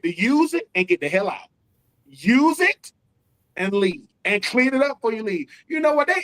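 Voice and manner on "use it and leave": mock order. Stadium owner telling them leave.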